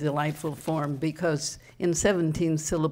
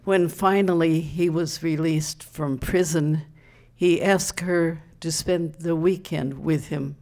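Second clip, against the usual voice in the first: measured comic verse reading; deliberate, lightly emphatic recital; poem recital. Acted. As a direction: set up the punchline line by line. Reads comic quatrain to audience.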